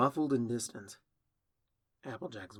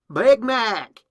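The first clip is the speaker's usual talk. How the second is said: full-voiced high shout for help; yelling; 12 semitones higher, 18 dB louder than usual. A narrator's reading. Applejack calling her brother from down the well, yelling. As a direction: holler the name up out of a well. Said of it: "Applejack yells".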